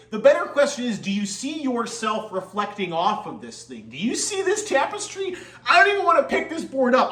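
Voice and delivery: high giddy laughing talk; laughing excitedly. Real, not acted.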